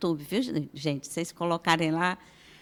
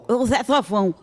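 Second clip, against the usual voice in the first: normal talking voice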